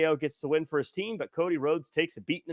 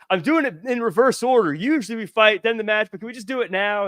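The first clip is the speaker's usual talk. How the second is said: high, loud quoted wrestler pleading his case; acted eager pleading; 7 semitones higher, 5 dB louder than usual. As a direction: imitate an impatient wrestler, pitched up and hurried at the end. Acting out wrestler badgering an official.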